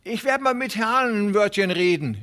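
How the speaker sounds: high, hurried pleading voice of a small worried farmer; anxious little tenant. Acted. Hooven calls after Presley. (aufgeregter kleiner Pächter, hohe, drängende Stimme)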